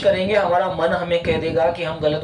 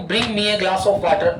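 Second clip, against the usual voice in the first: slow dictation; much slower than usual. Shown as a demonstration. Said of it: "अगर मैं direct कहूं".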